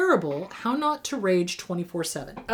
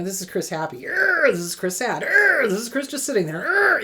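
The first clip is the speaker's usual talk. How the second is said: teasing growl; 3 dB louder than usual. Retold or imitated. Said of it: "my friends used to joke".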